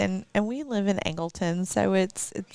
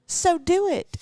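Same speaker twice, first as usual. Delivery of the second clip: a hint of a pushy cashier, pitched higher; 9 semitones higher, 3 dB louder, slower than usual. Young cashier dares the tired mom to say it, higher teasing voice. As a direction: toss off the dare like a teasing stranger.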